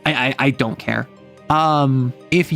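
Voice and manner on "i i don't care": ordinary delivery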